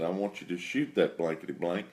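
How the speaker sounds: soft, voiced take on a cussing whisper; retold whispered cussing. Landowner instructing the hunter at the stand, half-whispered cussing. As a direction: quietly order it, imitating his whispered cussing. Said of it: "he was even cussing in his whispering".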